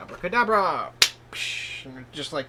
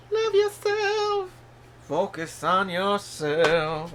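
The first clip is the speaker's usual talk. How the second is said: mock grand pronouncement; 5 semitones higher, 5 dB louder, much slower than usual. Dramatic tarot advice delivery.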